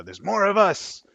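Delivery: high, slow goblin hiss. Acted. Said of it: "he hisses and, and says".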